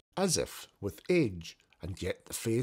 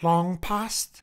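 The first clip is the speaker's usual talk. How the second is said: Scrooge asking; 7 semitones higher, 5 dB louder than usual. Acted. Scrooge questioning the ghost.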